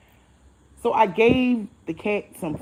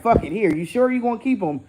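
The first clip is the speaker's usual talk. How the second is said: louder, slightly raised, insistent pleading; mock excited urging; 4 semitones higher, 5 dB louder than usual. Man handing off his cat, imitated as excited. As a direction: imitate someone eager to hand it off. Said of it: "excited to give me the cat".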